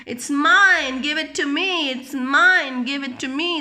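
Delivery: put-on high, insistent kids fighting; tug-of-war brats, each insisting; children squabbling. Children quarrelling over the toy, high and insistent.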